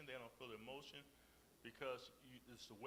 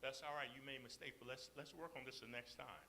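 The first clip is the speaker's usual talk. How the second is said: kind, considerate. Acted. Kind person answering someone's mistake, considerate. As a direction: let the mistake go kindly. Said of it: "a kind, considerate person say".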